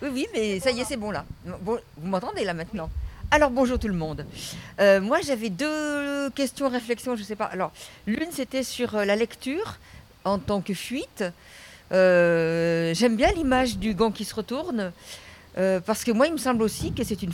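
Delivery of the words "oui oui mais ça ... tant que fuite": faint, far from the mic; barely audible. Real, not acted. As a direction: voice too far from the microphone. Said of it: "Yasmina, on t'entend pas".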